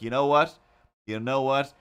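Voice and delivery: hammed-up frustrated declaration; mock exasperated outburst. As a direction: blurt it out like you've finally snapped. Fed up retelling decision.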